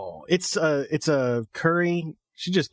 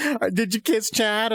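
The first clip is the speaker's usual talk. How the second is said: slow, higher, put-on Usagi voice; imitating Usagi; 6 semitones higher, slower than usual. Retelling Usagi teasing Rei, in a slow goofy put-on voice. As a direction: drag out the nosy question in a goofy Usagi voice. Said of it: "And she's like".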